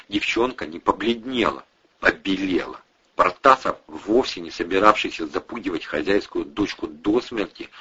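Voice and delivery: ordinary delivery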